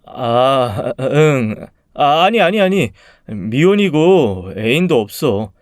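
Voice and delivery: hasty denials rising in pitch, then stretched out; flustered, blurting loudly. Acted. Man telling his first love he is single, flustered. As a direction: blurt it out too eagerly. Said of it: "저도 모르게 큰 소리로 말하고는".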